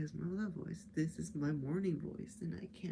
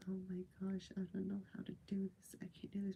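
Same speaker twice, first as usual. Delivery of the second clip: shy whisper; 7 dB quieter, faster than usual. Retold or imitated. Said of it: "I'm, like, super shy".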